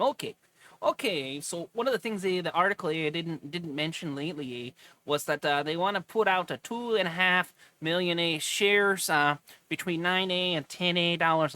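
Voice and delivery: put-on Minnesota accent. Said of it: "I'm sorry, I'm gonna stop that, eh?".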